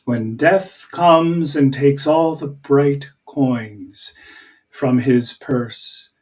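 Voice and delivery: slow, deliberate reading of a poem; measured recitation, testing the rhythm. Shown as a demonstration. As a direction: read it aloud, listening for a beat. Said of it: "I'm just gonna read".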